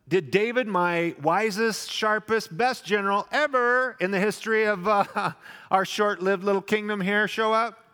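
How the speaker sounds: mock-admiring king asking after David; admiring hypothetical Saul. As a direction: gush over his best general. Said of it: "Doesn't say".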